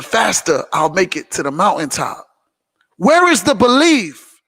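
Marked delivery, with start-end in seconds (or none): 3.0-4.4 loud preaching. Real, not acted.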